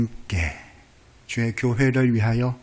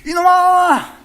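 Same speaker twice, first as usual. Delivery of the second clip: very high, loud rebuke; booming divine scold; the Lord scolding; 8 dB louder, much slower than usual. Acted. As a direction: call out sharply from heaven. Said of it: "주님이 그때마다".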